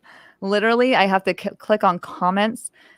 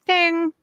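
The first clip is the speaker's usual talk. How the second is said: mock ding; 10 semitones higher than usual. Shown as a demonstration. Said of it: "be like".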